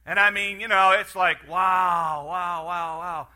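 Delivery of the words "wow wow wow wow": a loud wow that fades away to nothing; marvelling at a loaded cornfield; amazed wow. Retold or imitated. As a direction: start with a big amazed shout and let it die down. Farmer amazed at loaded field.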